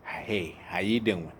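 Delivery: lightly voiced old-school Black mother. Mother texts her struggling son, old-school Black mother voice. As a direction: imitate your mother checking in, lightly. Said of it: "old school black mother voice".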